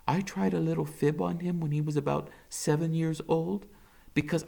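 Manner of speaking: tired, kind doctor breaking bad news; gentle doctor. Doctor voiced.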